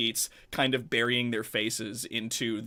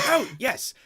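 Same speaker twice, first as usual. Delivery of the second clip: higher, fussy eager host voice that softens; eager Benjamin; 3 semitones higher, faster than usual. Acted. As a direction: usher them in excitedly.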